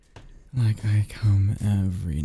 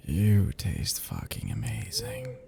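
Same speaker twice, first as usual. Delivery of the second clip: slow, hushed relish; savoring hush; 3 semitones lower, 6 dB quieter, slower than usual. Acted. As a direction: linger softly over the taste. Vampire savoring his victim's blood.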